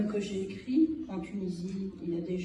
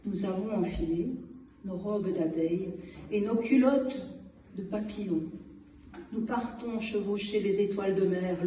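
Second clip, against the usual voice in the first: measured poem reading with long pauses between phrases; poem recitation. Acted. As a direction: recite your own protest poem, punching key phrases. Reads own poem aloud.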